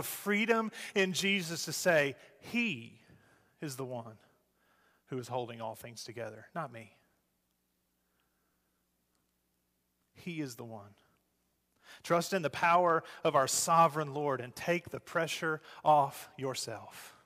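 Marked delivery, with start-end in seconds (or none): 2.4-10.9 soft confession. Acted. Quoted confession, softened.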